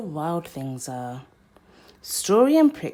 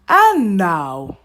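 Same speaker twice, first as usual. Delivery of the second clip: Max cries out; 3 semitones higher, 12 dB louder than usual. Acted. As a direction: shout it out to start the rumpus. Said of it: "cried Max".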